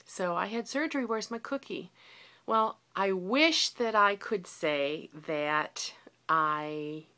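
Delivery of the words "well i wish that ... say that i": slow, guilty whisper; confessional whisper. Real, not acted. Confessing she broke her diet.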